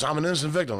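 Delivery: high-pitched protesting heckler; mock indignant outcry. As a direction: play an aggrieved drunk, voice pushed way up. Same bloodied heckler protesting innocence.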